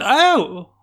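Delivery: high, breathy receptionist. Acted. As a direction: gush the name up high. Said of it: "And she goes".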